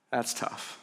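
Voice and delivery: breathy, hushed aside. Real, not acted. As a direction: let it fall almost to nothing. Pastor reacts quietly to Mary's grief.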